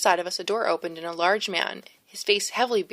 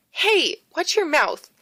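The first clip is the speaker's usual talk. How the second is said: much higher, louder scolding; sharp rebuke; 10 semitones higher, 6 dB louder, slower than usual. A narrator's reading. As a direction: snap a warning at her. Scolding the ghost for swearing.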